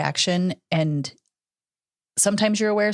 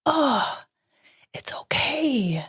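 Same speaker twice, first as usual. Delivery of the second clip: tearful; 9 semitones higher than usual. Retold or imitated. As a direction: tearfully reassure your daughter. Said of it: "I got tears in my eyes".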